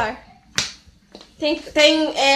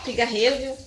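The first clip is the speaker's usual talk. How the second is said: usual speaking voice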